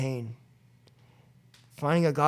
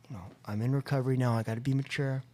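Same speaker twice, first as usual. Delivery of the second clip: whispered, softer, calming himself; hushed self-restraint; 2 semitones lower, 6 dB quieter, faster than usual. Retold or imitated. Leaving his brother's house, whispering to himself to stay calm. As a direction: breathe it out under your breath.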